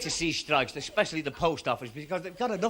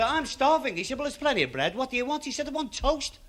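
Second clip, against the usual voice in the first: raised, high monkey voices; squeaky monkeys; 8 semitones higher than usual. Retold or imitated. Two monkeys in a cage, higher pitched. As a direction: chatter like a hungry monkey.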